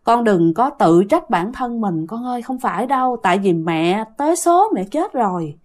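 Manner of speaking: put-on soft and gentle, a mother comforting her child. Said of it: "nói với một cái giọng rất nhẹ nhàng". (giọng mẹ nhẹ nhàng, dịu dàng an ủi con)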